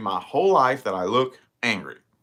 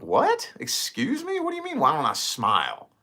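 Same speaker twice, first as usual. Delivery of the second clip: indignant self-quote; 5 semitones higher than usual. Retold or imitated. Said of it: "And I'm like".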